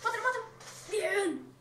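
yelling kill it; urgent gamer shout; excited shout. Real, not acted. Urging partner mid-fight. (grito de jugador emocionado)

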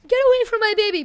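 high, loud outburst; hammed-up warning shout; mock protective yell. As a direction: shout them off playfully.

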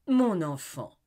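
loud, high cry of alarm. A narrator's reading. Amy crying out as she remembers her daughter, loud. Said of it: "cria-t-elle".

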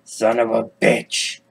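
slow, drawn-out groan of disbelief; mock defeat. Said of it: "And you're like".

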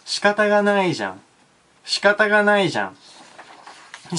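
high-pitched standard Japanese demo. Shown as a demonstration. Teacher giving the standard version, high standard Japanese accent. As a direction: say it in standard Tokyo-style Japanese. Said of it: "標準語では".

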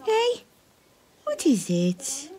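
high squeaky dog coaxing; squeaky praising a dog. Real, not acted. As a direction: coo at the dog.

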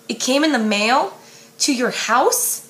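disbelieving question, pitch rising on in; shocked echo. Acted. Lara Jean echoing Peter in shock, disbelieving rising question. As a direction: echo his words back in disbelief.

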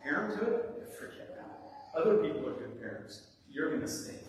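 lightly voiced, dismissive inner critic; self-doubt's voice. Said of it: "is the voice of self-doubt".

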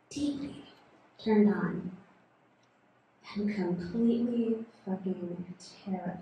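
confessional poem. Acted. Performs second poem, halting.

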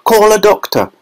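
high urgent shout; shouting father. A narrator's reading. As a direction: call for help. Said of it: "shouted Mister Beauregard".

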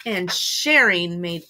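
measured, emphatic storytime narration; story read to children. A narrator's reading. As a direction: draw out the key words for young listeners. Reads a picture book aloud.

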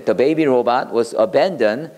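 slow, careful model sentence for learners; slow teacher read. Shown as a demonstration. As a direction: read it out slowly, word by word. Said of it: "이렇게 하면 돼요".

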